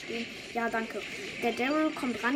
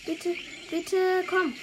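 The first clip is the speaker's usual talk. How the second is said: high, loud begging; frantic high-pitched please; desperate pleading; 6 semitones higher, 4 dB louder, slower than usual. Real, not acted. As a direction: plead with the game, voice climbing. Begging as character dies.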